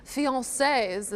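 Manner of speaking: drawn-out mock French accent. Co-host sharing engagement news, putting on a French accent. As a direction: say "fiancés" with a playful French accent. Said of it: "we like to say it with a French accent".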